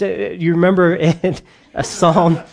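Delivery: real laugh breaking into the words; can't keep straight face. Real, not acted. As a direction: try to carry on through a chuckle. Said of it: "can't even say it with a straight face".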